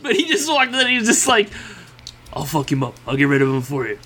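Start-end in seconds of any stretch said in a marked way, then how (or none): 2.3-4.0 lightly put-on Italian mobster accent; half-hearted Italian tough-guy impression; shitty Italian yakuza impersonation. Podcaster joking as an Italian yakuza hitman, shitty impersonation. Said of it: "excuse me for the shitty impersonation".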